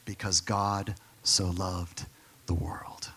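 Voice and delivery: whispered, slow "God so loved the world". Acted. Pastor whispers the verse to his congregation. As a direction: breathe it out as a hushed secret. Answering his own question.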